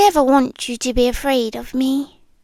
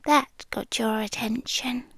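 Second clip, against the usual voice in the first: hushed confiding whisper; whispered confession to the listener; 9 dB quieter than usual. Acted. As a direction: lean in and breathe it secretly. Teasing after a pause.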